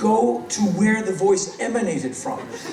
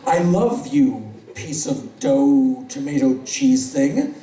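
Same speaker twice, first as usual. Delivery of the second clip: mock declaration of love; 5 semitones lower, slower than usual.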